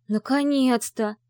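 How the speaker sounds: slow, eager high exclamation; light up at last; perked up. Acted. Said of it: "оживилась Ви".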